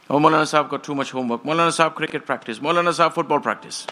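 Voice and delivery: rattled-off mock excuses, quick and run together; mimicked excuses. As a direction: reel off excuses like a list, imitating. Mimicking excuses made to the Maulana.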